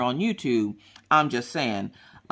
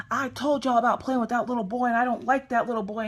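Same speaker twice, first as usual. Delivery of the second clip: higher, scolding mother voice; exasperated mom; 7 semitones higher than usual. Retold or imitated. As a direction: play the fed-up mom who warned them. Mom scolding about the boy.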